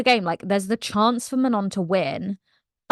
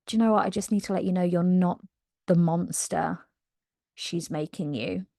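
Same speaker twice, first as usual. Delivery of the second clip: soft earnest; 3 semitones lower, 5 dB quieter than usual. Retold or imitated. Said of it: "this girl's like".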